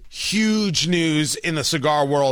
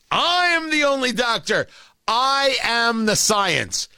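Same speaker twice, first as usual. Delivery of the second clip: grand, slow self-important proclamation; pompous mock Fauci; 4 semitones higher than usual. Host mocking Fauci as the sole voice of science, pompous. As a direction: lord it over everyone as the one true expert. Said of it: "Anthony Fauci, M D".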